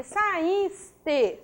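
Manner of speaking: "saíste" said slowly and carefully; slow teaching pronunciation of "saíste"; drawn-out word. Shown as a demonstration. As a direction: stretch out "saíste" for learners. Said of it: "a sílaba tônica é o is".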